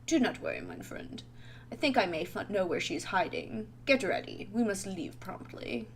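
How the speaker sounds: lightly put-on, reassuring British friend; steady him in a British accent. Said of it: "He's just gonna be British".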